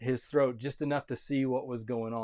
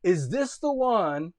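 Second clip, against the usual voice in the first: mocking; 3 semitones higher, 4 dB louder than usual. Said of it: "They're mocking him".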